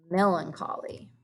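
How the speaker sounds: hushed whisper. Shown as a demonstration. Reveals the saddest word.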